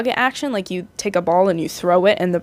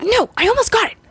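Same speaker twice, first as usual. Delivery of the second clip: voicing Tinkerbell; 12 semitones higher, faster than usual. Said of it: "Tinkerbell's like".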